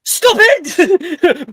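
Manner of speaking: high playful yell; shouting. Real, not acted. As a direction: cry out to stop. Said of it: "playful cry".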